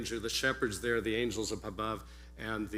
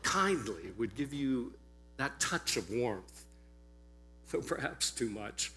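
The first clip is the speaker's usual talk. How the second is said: measured, theatrical storyteller with deliberate pauses; first-century servant; 3 semitones higher, 5 dB louder than usual. Acted. Servant describing his regal master to listeners, measured dramatic monologue. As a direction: perform a servant's monologue, weighing each description, swelling on the strong words. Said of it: "assume that I am dressed as".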